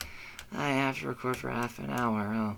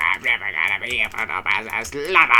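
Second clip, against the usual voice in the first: mock despairing wail; 2 semitones lower, 6 dB louder than usual. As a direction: wail in hammed-up despair, getting louder. Mock despair, stuck on level.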